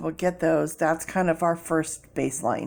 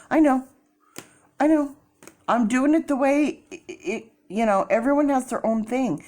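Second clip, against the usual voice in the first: high, louder insistent reply; defensive excited; 8 semitones higher, 4 dB louder than usual. Real, not acted. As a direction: brush off the critics lightly.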